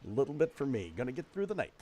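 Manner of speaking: soft, sing-song doling out; furtive soft muttering. Acted. Night nurse doling out patients' meds, soft voice. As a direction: speak softly, as if sharing out in secret.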